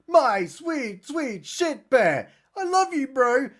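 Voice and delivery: high, slow, hammed-up heartbreak; drawn-out pretend lament; mock sad plea. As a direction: plead with an old friend, playing up the hurt. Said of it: "it's so sad".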